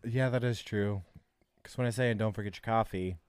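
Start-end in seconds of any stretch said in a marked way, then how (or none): 2.1-3.2 quick chirpy customer service line. Shown as a demonstration. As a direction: rattle it off like a cashier. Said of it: "that's my customer service voice".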